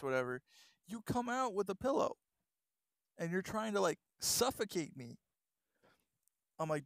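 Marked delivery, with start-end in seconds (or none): 0.9-5.2 shaken friend. Retold or imitated. Friend recounting being attacked.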